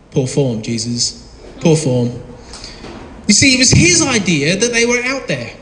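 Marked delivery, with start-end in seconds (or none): 0.1-2.1 mock scolding. Preacher chides sleeping Jesus.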